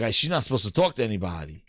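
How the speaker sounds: low, quiet mumble as the nervous guard; worried bodyguard. Retold or imitated. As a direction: grumble it low under your breath like a guard in trouble. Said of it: "He's like".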